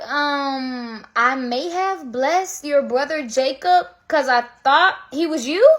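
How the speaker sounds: slow, hesitant confession ending in a question; stall, then admit it haltingly; Isaac, sheepish. Acted. Father admitting he blessed the wrong brother, sheepish.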